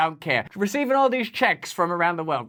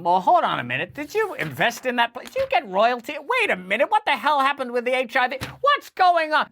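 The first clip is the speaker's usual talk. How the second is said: imitating Rand Paul; 5 semitones higher than usual. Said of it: "Rand Paul interviewing Fauci, going".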